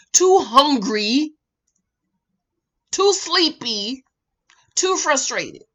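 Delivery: slow, drawn-out "too hungry, too sleepy"; slow emphasis. Real, not acted. Advising the ladies, slow and emphatic. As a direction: stretch each warning out. Listing warnings slowly.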